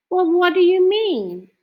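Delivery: high, loud puzzled question. A narrator's reading. Francine baffled by Arthur's thanks, puzzled. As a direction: caught off guard, demand an answer. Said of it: "asked Francine".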